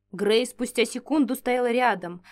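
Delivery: ordinary delivery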